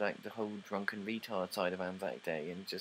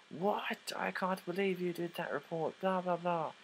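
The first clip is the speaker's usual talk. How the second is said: mock outraged father; 8 semitones higher, slower than usual. Father voiced in retold quarrel.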